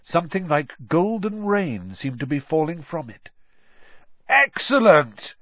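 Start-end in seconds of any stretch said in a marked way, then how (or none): 4.3-5.4 high, slow, loud cry of delight; excited yell. A narrator's reading. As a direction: shout it out in glee. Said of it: "yelled Ron".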